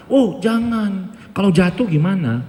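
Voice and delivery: slow, high worried refusal; anxious parent. Retold or imitated. Teacher mimics an overprotective parent refusing, slow and high. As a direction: drag out a fretful no. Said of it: "orang tua yang anaknya diproteksi".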